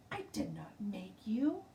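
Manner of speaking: unvoiced whispered denial. A narrator's reading. Girl whispering a denial to her classmate, whisper. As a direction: hiss it under your breath. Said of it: "whispered denial".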